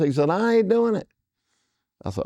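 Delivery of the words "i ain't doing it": high mock stubborn refusal; flat refusal. Dale refusing Parker outright, high stubborn mock refusal. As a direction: plant your feet and refuse.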